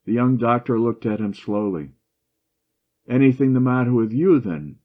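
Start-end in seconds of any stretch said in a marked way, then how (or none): 3.1-4.8 sarcastic. A narrator's reading. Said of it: "he asked sarcastically".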